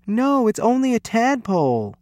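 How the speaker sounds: put-on explaining boy. A narrator's reading. Lewis correcting the panicked coach, high boyish protest.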